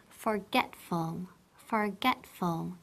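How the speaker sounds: forgetful, forgetful said slowly and clearly for students to repeat; model for repeating. Shown as a demonstration. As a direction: spell out forgetful slowly, syllable by syllable. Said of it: "So, repeat". (forgetful, despacio y claro para repetir)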